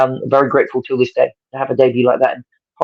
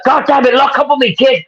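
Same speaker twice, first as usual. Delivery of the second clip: a much higher, put-on American accent, impatient; attempted American accent; 12 semitones higher than usual. Telling the kid to try again, American accent. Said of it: "I can't do an American accent, but I'll try".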